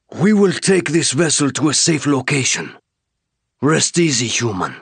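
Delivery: high alien voice, firm and calming; alien warrior reassuring. Acted. Alien warrior to the shaking human: firm, reassuring alien voice. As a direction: settle the human down.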